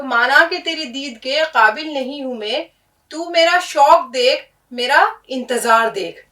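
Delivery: reciting Iqbal. Shown as a demonstration. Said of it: "Iqbal کا ایک شعر ہے".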